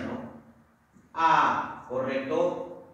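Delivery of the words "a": "A" held alone as a separate syllable. Shown as a demonstration. Teacher separating aviación for students, syllable by syllable. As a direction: isolate the syllable "A". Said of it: "Se separa de la siguiente manera".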